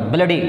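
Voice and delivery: ब्लडी as "bla-dee", short open vowel; short "a" after L. Shown as a demonstration. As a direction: say ब्लडी with a "la" sound, no "oo". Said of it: "यहाँ पे ज़बर लगा दे रहे हैं L के बाद".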